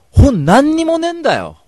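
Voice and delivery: high, loud, slow exclamation; indignant outburst. Retold or imitated. Radio host retelling the empty bookstore, high indignant outcry. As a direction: cry out that there's nothing.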